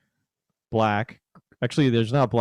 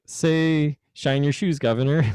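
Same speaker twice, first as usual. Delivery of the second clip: fake British accent; 4 semitones higher than usual. Shown as a demonstration. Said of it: "you'd be like".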